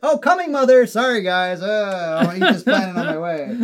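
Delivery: high, loud, laughing cosmic villain; goofy Galactus voice. Pretend. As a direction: ham up a sheepish world eater. Voicing Galactus as a joke.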